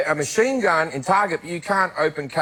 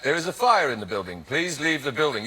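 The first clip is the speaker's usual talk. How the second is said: lightly voiced British accent, lower and calm; 3 semitones lower, 5 dB quieter than usual. Telling people to leave a burning building, British accent. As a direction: give the announcement an understated British accent. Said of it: "there was a British accent that went".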